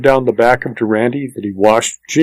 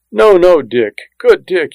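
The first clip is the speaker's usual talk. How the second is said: higher, louder begging; desperate pleading; 6 semitones higher, 3 dB louder than usual. A narrator's reading. Tony on his knees begs Durante to stop, pleading. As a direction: plead urgently, voice lifted.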